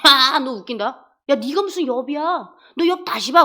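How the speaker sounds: mild mock scorn; scoffing. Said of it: "콧방귀 끼시더라고요".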